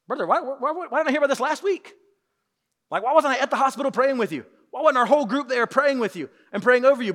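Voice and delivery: disbelieving, high and loud, with a laugh; why didn't you tell me, half laughing; incredulous outcry. Retold or imitated. Friend hears of hospital week.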